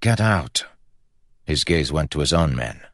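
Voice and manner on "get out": mild grumbled order. A narrator's reading. Prince's brother sending the guards out, grumbled. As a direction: grumble it, a little higher. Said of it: "he grumbled".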